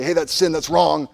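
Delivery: mildly hammed-up scolding; mock accusation. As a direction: act out a quick condemnation. Acting out a quick condemnation.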